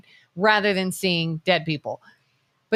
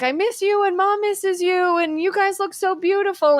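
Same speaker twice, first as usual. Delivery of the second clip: put-on very high, sing-song boy's voice greeting his dead dad; retelling a viral clip, mimicking the boy in the hospital bed; imitating awestruck boy; 11 semitones higher than usual. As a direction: float up into a child's dreamy, awed voice. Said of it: "and he's like".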